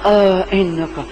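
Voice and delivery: slow, halting, stunned "آ، انکا، لا انت یوسف"; stammering in disbelief. Retold or imitated. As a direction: stutter it out, afraid to believe. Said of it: "ڈر اور خوف اور امید". (ڈرے ہوئے اٹکتے لہجے میں)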